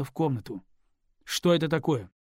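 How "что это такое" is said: louder, stern demand; stern question. Acted. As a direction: confront her with the bottle. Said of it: "строго спросил он". (строгий вопрос жене)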